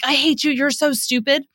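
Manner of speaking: put-on disrespectful kid. Kid lashing out at a parent, mildly disrespectful. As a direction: imitate an angry child lashing out without really yelling. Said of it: "yelling at you really disrespectfully".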